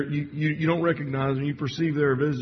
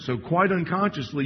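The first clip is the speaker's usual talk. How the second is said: "quite unconsciously" lifted higher and stressed; 4 semitones higher than usual. Shown as a demonstration. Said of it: "I would emphasize the word unconsciously".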